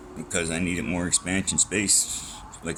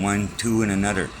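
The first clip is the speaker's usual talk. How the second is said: folksy country way of counting, pitched up; down-home counting; 3 semitones higher, 6 dB louder than usual. Retold or imitated. Mimicking folks back home counting, high and loud. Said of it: "like they say down home".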